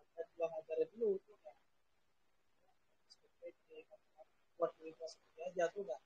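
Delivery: glitching, dropping call audio; choppy connection. Real, not acted. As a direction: voice cutting out over a bad line. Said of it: "putus-putus".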